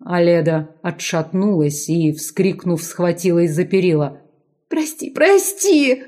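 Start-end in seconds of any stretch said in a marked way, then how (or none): 4.7-6.0 high, slow, trembling plea; frightened babbling. A narrator's reading. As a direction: beg him in a much higher frightened voice. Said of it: "пролепетала она".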